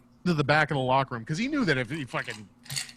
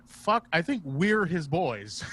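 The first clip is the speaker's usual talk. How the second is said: laughing realisation; 3 semitones higher, slower than usual. Retold or imitated. Realising they are the boys.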